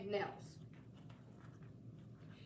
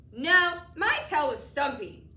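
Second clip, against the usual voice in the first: louder, slurping monster voice; slurped; 3 semitones higher, 8 dB louder than usual. A narrator's reading. Mac tells the boy about his stumpy tail, slurping. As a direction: talk through slobber. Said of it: "Mac slurped".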